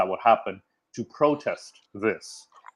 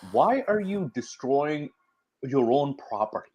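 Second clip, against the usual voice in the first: incredulous challenge; 3 semitones higher than usual. Retold or imitated. Silenced minority questioning rioters, incredulous.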